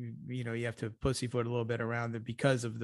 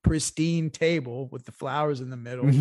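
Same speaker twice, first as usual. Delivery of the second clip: louder bursts of mock defiance; mock Putin tirade; 4 dB louder than usual. Co-host playing Putin at the negotiating table, mock-defiant. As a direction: lay down a comic ultimatum. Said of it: "on the table and said".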